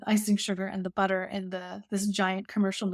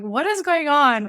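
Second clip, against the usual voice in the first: slow, loud, higher-pitched disbelief; mock bewilderment; 6 semitones higher, 7 dB louder, slower than usual. Bride seeing the flour-covered baker, loud mock bewilderment. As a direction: draw it out as an imitated baffled reaction.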